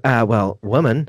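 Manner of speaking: a hint of a man's voice correcting him; deep-voiced caller. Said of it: "She sounded like a guy".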